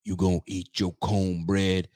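retelling the movie Life scene, slow imitated ask; cornbread man from Life. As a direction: lean in and ask for the cornbread slowly. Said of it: "he leans over and goes".

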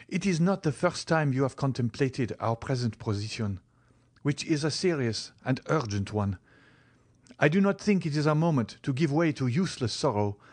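lightly voiced earnest young man; Morrel, urgent. Morrel urges Valentine to resist.

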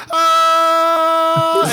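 very high, loud scream shown as a demo; death cry. Shown as a demonstration. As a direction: belt a short falling-off-the-cliff yell. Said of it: "you just go".

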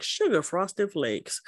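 slow, laughing through the words; laughing quote. Retold or imitated. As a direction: drawl it out while laughing. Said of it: "our waiter was like".

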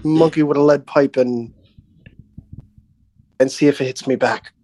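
Australian wildlife-show daredevil; Australian Crocodile Hunter. Acted. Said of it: "his Australian accent was way better".

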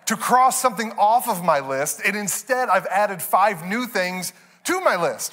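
a touch of retold fury at the chores; retold livid rant. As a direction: replay the frustration, half-hearted anger. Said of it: "I just get livid in this moment".

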